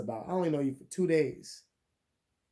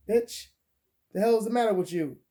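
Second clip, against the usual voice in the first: higher, quicker indignant snap at her; acting out his own irritated reply; exasperated outburst; 5 semitones higher than usual. To the rude woman on the phone, an indignant outburst. Angry retort at drunk caller.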